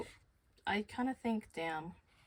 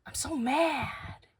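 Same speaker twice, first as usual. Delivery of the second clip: high, loud mock-outraged wail; imitating upset coworker; 8 semitones higher, 6 dB louder than usual. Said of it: "a coworker comes up to me and goes like".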